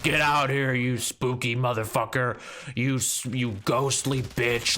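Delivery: hammed-up dare to the ghost; taunting. Grandpa in the hallway taunting the ghosts, mock bold call.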